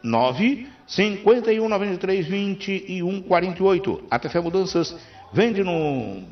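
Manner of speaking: upbeat, punchy live commercial read; radio ad read. Acted. Radio host reading a sponsor ad to listeners, upbeat ad read. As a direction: sell the moving company to listeners.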